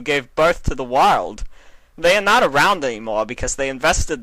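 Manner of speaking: lines that lift at the end of half the sentences; pitching sentence ends. A narrator's reading. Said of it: "his voice pitching at the end".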